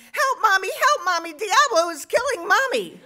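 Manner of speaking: high, loud mock cries for help; hammed-up child's scream, high and urgent; imitating screaming kids. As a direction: scream like panicked little daughters. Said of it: "screaming bloody mur-, murder, crying".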